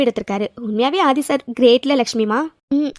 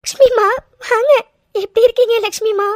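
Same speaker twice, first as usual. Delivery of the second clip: happy greeting; 8 semitones higher, 3 dB louder than usual. Acted. Daughter greets her mother.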